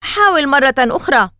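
encouraging. A narrator's reading. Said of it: "شجعه ألان".

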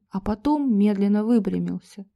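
ordinary delivery, nothing marked

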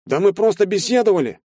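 high, whiny pleading; plaintive squeak. A narrator's reading. Scared recruit squeaks an excuse to the major. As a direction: squeak it out pitifully. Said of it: "жалобно пропищал парень".

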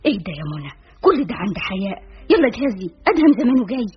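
nagging, rising to an urgent order; scolding mother. Acted. Mother rushing her daughter to get ready, scolding. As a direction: chide her, then hurry her along. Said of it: "فنهرتني والدتي هاتفة".

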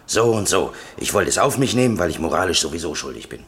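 pushy demonstration of what he should say; mock confession. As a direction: spell the confession out for him. Defender voices the confession he wants.

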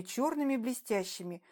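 ordinary delivery

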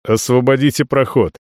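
flat mechanical order; robot voice. Acted. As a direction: recite it like a machine. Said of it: "голосом робота говорит".

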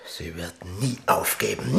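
whispered dread. Acted. King realising the countess will never yield. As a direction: breathe it out in disbelief.

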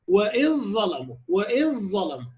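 وإذ ظلموا recited slowly, ذ merged into ظ; slow recitation. Shown as a demonstration. Teacher reciting example for students, slow and careful. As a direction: stretch out وإذ ظلموا deliberately.

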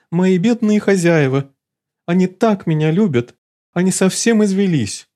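high, distressed wailing for owners; high fretful cry; agitated lament. Acted. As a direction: fret dramatically. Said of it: "совсем разволновалась Лулу".

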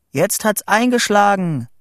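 high excited report; excited calling. A narrator's reading. Boy watching the storm for Vito, excited calling. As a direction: call out the news from a lookout. Reports lightning strike over tin phone.

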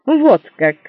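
husband indignant at his wife. Acted. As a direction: bristle with jealousy. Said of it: "возмущённо заявило лицо".

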